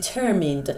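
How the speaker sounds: "Determined." with the weight on ter; stress on the T syllable. Shown as a demonstration. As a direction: lean on the middle syllable of "Determined.". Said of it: "فشارش هم روی تی بذارید".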